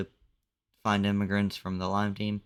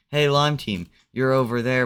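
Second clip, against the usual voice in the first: loud, raised call to a distant team; 3 semitones higher, 6 dB louder than usual. Acted. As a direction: shout over to them, higher and louder. Calling out across the map.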